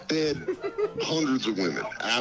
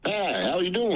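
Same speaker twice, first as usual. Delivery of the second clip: Dave Chappelle voice; 3 semitones higher than usual. Pretend. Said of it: "You sound just like him".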